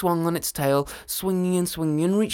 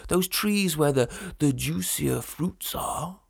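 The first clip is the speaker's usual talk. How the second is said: dragon voice; 3 semitones higher, 4 dB louder than usual. Acted. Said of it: "said the dragon".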